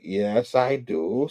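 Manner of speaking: low, soft, reluctant admission; unimpressed. Retold or imitated. Aunt May hearing an unwelcome old name, unimpressed. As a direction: acknowledge it with quiet distaste, voice dropped. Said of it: "So she's not digging the name".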